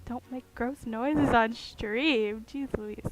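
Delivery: ordinary talk, nothing marked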